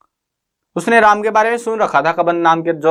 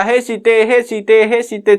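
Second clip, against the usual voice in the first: calling out from afar; 5 semitones higher than usual. Retold or imitated. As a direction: call her name across the distance, mildly mock. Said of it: "दूर से वो चिल्लाने लग गया". (दूर से सीता को पुकारते हुए ऊँची आवाज़)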